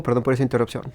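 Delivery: usual speaking voice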